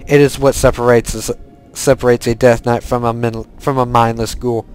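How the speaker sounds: put-on lightly accented Lich King voice, measured and even; solemn quest read in a put-on villain accent; put-on Death Knight accent. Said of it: "I do actually like talking in that accent".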